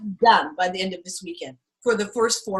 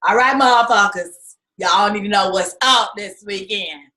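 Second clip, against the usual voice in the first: imitating Aunt Louie; 3 semitones lower, 5 dB louder than usual. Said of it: "she talks like Aunt Louie".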